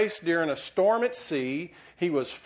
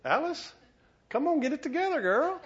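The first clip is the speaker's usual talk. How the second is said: mock scolding; 11 semitones higher than usual. Teasing a congregant by name.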